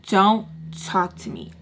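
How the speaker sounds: slow, spaced-out order; firm dismissal. Retold or imitated. Girl cutting the boy off, firmly. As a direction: space the words out to shut him down.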